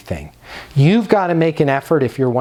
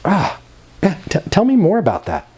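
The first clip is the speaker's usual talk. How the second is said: high, eager, sympathetic ums and ohs like a client is confiding in you; attentive listening noises; 4 semitones higher than usual. Shown as a demonstration. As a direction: show you're hooked on every word. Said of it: "use occasional listening noises like".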